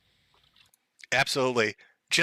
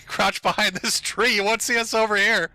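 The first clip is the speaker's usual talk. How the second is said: higher-pitched, hammed-up cop taking cover; mock officer voice; 4 semitones higher than usual. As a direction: play a jokey cop directing his squad to hide. Voicing officers hiding in footage.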